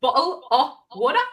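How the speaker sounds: trying a British "bottle of water"; British pronunciation, offered as a question; British accent. Retold or imitated. American checking the British way to say it, British accent. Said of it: "So you say it like".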